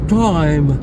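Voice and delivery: time with the long gliding I; English time, diphthonged I. Shown as a demonstration. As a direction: glide the vowel in time. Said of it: "Il est donc long et donc il est diphtongué".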